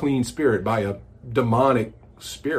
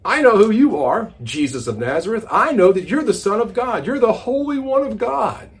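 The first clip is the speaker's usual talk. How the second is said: higher, louder yelling at the guest speaker; screaming possessed man; 8 semitones higher, 4 dB louder than usual. Acted. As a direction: yell it out across the room. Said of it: "he's yelling and he's screaming".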